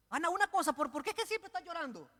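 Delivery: high, puzzled mock husband; mock clueless husband. Elcana asking his weeping wife, mock baffled and high. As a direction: play the baffled husband, a touch hammed. Preacher voices Elcana to Ana.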